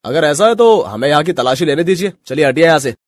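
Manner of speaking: stern order. Acted. Inspector orders search during raid.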